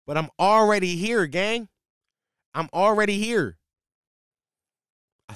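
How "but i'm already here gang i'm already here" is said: insisting. Real, not acted. Insisting to crowd he stays.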